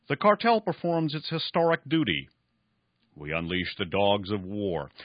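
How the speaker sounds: lightly voiced cynical old industrialist; old man Esau. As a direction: let the old man sneer his history lesson. Esau's answer.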